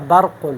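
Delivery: برق with a light, thin R. Shown as a demonstration. Teacher showing how a thin reading differs, thin ra. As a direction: keep the ra in برق flat-tongued, not full. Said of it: "اس کو اس طرح پڑھوں گا".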